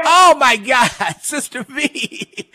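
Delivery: loud delighted gasp; thrilled to hear a friend; excited surprise. Real, not acted. Recognises winning caller.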